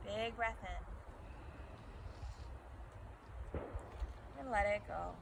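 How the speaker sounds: calm breathing cues with long pauses; guided meditation. Acted. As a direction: guide them gently into the breath, pausing between cues.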